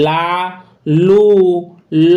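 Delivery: লা, লু, ল, each vowel distinct, with pauses between; pronunciation demo. Shown as a demonstration. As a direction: sound out লা, লু, ল as three separate syllables. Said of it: "তখন কিন্তু তার উচ্চারণ".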